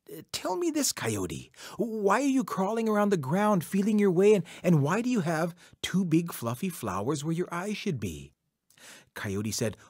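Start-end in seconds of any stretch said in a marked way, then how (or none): 0.1-8.3 put-on curious, suspicious old woman; nosy old woman, pitch swooping. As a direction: question the trickster in a higher character voice. Old woman questions Coyote.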